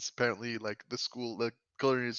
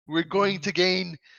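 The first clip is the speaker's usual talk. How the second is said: huge booming voice, higher and louder; 7 semitones higher, 6 dB louder than usual. Voicing a cult leader opening a sacrifice with magic: super big voice. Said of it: "make my voice, like, sound super big".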